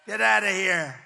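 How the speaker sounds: half-shouted retold tirade; mock screaming. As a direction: imitate someone yelling them out, building on the repeat. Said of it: "she starts screaming at him".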